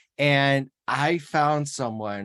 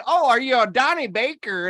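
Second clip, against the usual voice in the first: teasing question; 9 semitones higher, 5 dB louder than usual. Retold or imitated. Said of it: "I just wanna say".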